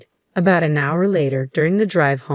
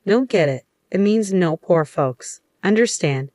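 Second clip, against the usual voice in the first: mild smirk; 3 semitones higher than usual. Acted. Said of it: "Mister Brown smirked".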